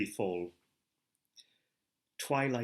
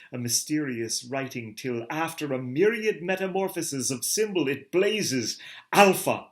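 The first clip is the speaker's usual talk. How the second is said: higher, louder, soaring delivery; exalted reading, much higher, climbing to a loud peak; rapturous narration; 5 semitones higher, 5 dB louder than usual. A narrator's reading. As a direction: lift into an awestruck vision. Ecstatic vision of the bride.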